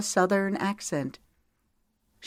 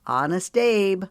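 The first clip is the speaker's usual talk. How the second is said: boastful; 2 semitones higher, 4 dB louder than usual. Acted. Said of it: "he boasted".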